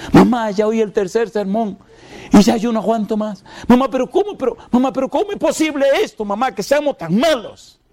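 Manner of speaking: very high, wailing lament; crying lament. Retold or imitated. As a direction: cry it out to mother in despair. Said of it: "él lloraba".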